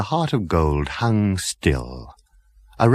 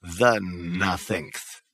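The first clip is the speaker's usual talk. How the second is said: put-on slow, frail old ghost voice; ancient great-grandfather; 8 dB quieter, much slower than usual. Great-grandfather judging Zaphod, slow and frail. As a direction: drawl it out, weary and ancient.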